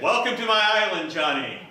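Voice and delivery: loud, high, grand welcome; booming king. Acted. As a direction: greet him like a proud king. King greets Johnny grandly.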